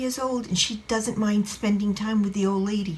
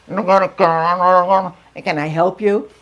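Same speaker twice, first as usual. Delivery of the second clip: very slow, drawn-out service voice; help-line voice; 6 dB louder, much slower than usual. Retold or imitated. Gate help line answers her, slow intercom voice. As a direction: drawl it like an intercom operator. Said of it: "And he, you know".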